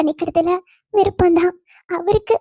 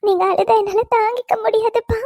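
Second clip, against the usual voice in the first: crying through the words, voice catching; tearful plea; 3 semitones higher than usual. Acted. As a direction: hold back a sob as you beg him. Daughter comforting her weeping father.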